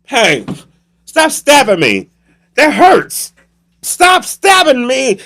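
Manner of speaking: high, drawn-out protests; hammed-up cries under attack; mock stabbing victim. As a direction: build to a wailing falsetto cry for help. Victim being stabbed, acted.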